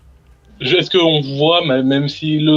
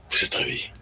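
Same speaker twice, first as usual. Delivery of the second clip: whisper; 9 dB quieter, much faster than usual. Pretend. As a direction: whisper it urgently to sleepers. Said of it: "j'essaye de chuchoter".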